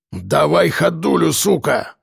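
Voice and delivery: slow, rough snarl of a command; barked order. A narrator's reading. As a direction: bark it at him. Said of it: "рявкнул Ворон".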